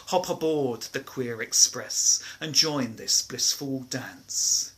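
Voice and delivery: rhythmic, sing-song verse reading; poem recital. Acted. Performs a rhyming poem.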